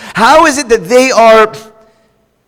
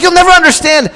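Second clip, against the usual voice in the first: wife, exasperated; 9 semitones higher, faster than usual. Retold or imitated. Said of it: "She's like".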